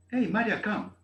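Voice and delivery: put-on loud, high summons to a child; calling out. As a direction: call Maria in from across the house, a high, loud hail. Acted scene calling daughter.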